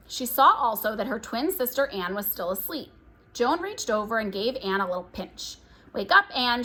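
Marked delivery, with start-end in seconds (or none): 5.9-6.6 urgent mock-scary wake-up call. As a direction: spook her sister awake. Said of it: "making her voice scary and urgent".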